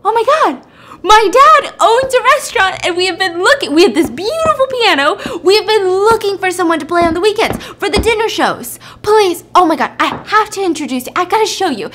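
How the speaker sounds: high, loud, bubbling excitement; acted thrilled young woman; excited gushing. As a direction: gush as if you found a treasure. Sophie thrilled he plays piano.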